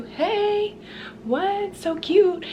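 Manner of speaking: high-pitched cutesy cooing; playful showing off. Pretend. Showing viewers her new thrifted blouse, playful and high-pitched. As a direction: sing out the greeting high, stretched and playful.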